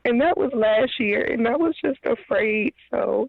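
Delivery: holding back tears while explaining; emotional. Real, not acted. Caller telling the host about past mistreatment, near tears. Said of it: "I'm getting emotional".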